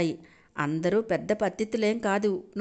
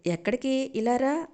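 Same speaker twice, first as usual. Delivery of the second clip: put-on affectionate, higher call to her boy; lovingly; 6 semitones higher than usual. Aunt calling Jai back to eat, lovingly. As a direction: coax him back fondly. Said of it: "అంది ప్రేమగా".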